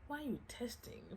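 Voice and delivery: hushed whisper to someone off camera. Real, not acted. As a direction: breathe it, almost no voice.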